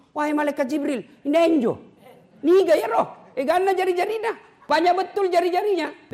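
high, loud wonder; amazed exclamation. Retold or imitated. Prophet amazed at the angel, high and loud. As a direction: marvel out loud, voice lifted high. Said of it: "Nabi takjub".

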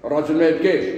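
mild mock reprimand; scolding elder. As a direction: imitate an elder telling a child to stop. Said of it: "وعلمونا احنا كي كنا صغار كي تبكي يقول".

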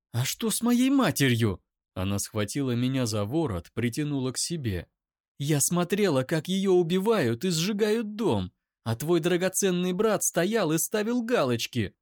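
hurls every word at him; screaming accusation at the brother's defender; furious scream. Acted. Eira screams about mother.

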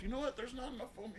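high, mock-dramatic self quote; inner voice quote. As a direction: act out your own thought. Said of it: "thought to myself".

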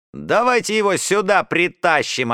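put-on boy eagerly shouting to drag him over. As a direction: egg the others on. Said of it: "азартно выкрикнул Малышев".

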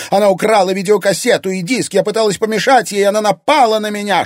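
high, loud victim's tattling; anguished cry. A narrator's reading. Anfisa telling Egor she was attacked, anguished cry. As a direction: pour out accusations in a high, hurt voice. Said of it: "страдальчески выкрикнула Анфиса".

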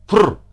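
sharp, high feline snort; cat's frr cry. Acted. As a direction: snort at the other cat. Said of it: "крикнул Пётр Тимофеевич". (кот фыркает на чужого кота)

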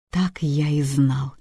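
slow triumphant whisper. Acted. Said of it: "торжествующе сказал Макар".

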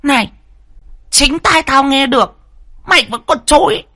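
jab each accusation at the maid; a spiteful daughter bullying the maid; shrill accusing screech. A narrator's reading. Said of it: "cái giọng the thé".

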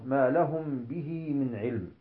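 slow recitation with long vowels; drawn-out verse reading; Quran recitation. Shown as a demonstration. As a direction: recite the verse in measured tajweed.

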